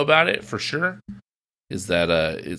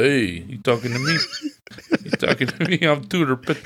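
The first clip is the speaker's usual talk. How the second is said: Robert De Niro. Retold or imitated. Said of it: "doing a really good Robert De Niro impersonation".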